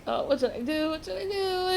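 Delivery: mock panic, pitch climbing; freaking out. Girl watching a man drown, mildly acted freaking out. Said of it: "freaking out".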